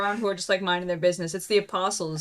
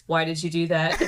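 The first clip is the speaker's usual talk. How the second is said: lower, gently reproving mother; gentle parenting queen; 4 semitones lower than usual. Acted. Mary questioning young Jesus about the dye, gentle parenting. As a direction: ask it like a patient parent, a touch lower. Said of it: "like, a gentle parenting queen".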